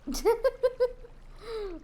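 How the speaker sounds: high-pitched rapid giggle. Real, not acted. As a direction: break into a high, stuttering laugh. Laughs after the skit.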